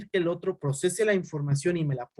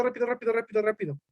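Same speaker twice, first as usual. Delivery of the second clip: fast talker demo; 6 semitones higher, faster than usual. Shown as a demonstration. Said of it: "habla así rápido".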